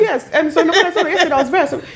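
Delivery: high, laughing retelling; laughing while telling. Real, not acted. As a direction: tell it through laughter.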